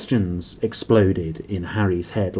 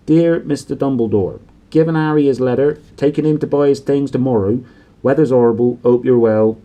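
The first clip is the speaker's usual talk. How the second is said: Hagrid voice; 3 semitones higher, 6 dB louder than usual. A narrator's reading. Hagrid writing note aloud.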